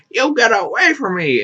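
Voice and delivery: high mock-indignant cry; retold angry outburst. Woman telling hat seller to back off, mock angry outburst. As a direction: act out fending someone off.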